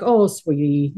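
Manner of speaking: lightly voiced sweet grandma. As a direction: coo it gently like a granny comforting a child. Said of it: "I talk to them like a grandma".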